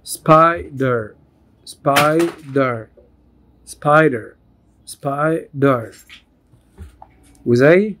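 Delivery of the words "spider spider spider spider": spider repeated, split into spi-der; syllable drill. Shown as a demonstration. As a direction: tap out both beats of spider. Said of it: "two syllable word". (تقطيع spider لمقطعين)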